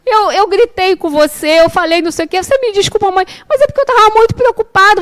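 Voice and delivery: high, pleading, rushed excuses; apologize, then tumble into worried complaint; imitated apologetic son. Mother mimics her son apologizing at the door, high anxious pleading. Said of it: "ele já abriu assim".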